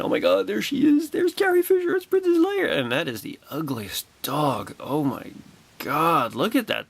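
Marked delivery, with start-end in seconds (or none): 0.0-2.7 high, loud gushing at first sight; starstruck excitement. Real, not acted. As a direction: squeal it like a fan meeting a star. Starstruck first sight of Carrie Fisher.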